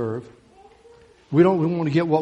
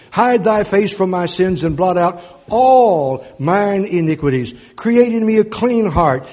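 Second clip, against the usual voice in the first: slow, louder rising plea; fervent scripture reading; 3 semitones higher, 6 dB louder than usual. Acted. Preacher crying out the psalm to his flock, slow and louder. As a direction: cry the verse out to God.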